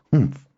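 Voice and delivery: short, huffy humph; audible humph. A narrator's reading. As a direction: huff in sulky protest. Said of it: "with an audible".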